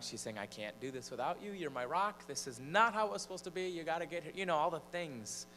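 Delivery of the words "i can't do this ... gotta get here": mildly imitated pleading, pitch climbing; retold tearful plea, higher as it builds; retold distraught wife. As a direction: plead as the distraught wife, without real tears. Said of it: "she's pretty distraught. She's crying".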